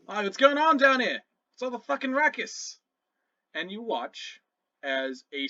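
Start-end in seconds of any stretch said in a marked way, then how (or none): 0.1-2.8 high-pitched, put-out goblin. Acted. Goblin emerging to see about the ruckus, high irritated voice. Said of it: "a new voice, uh, rises out of the darkness".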